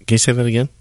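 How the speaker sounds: didn't-catch-that request to repeat; questioning tone. Shown as a demonstration. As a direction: ask "Can you say that again" as a real question. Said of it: "See, it's in the tone".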